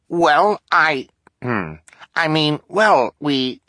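high, halting, nervous stammer; flustered high voice. Acted. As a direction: stumble for words in falsetto. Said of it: "Klaus said".

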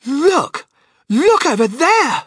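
very high, loud drawn-out shriek; excited scream. A narrator's reading. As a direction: scream to make everyone look. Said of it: "she screamed".

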